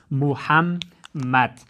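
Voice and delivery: محمد drawn out very slowly in separate syllables. Shown as a demonstration. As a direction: sound out محمد slowly, pausing between syllables. (محمد را بسیار آهسته و هجا به هجا)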